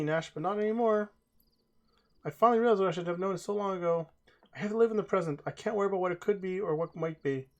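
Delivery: a hint of a determined young mage; Mia's voice. Streamer voices Mia, the heroine.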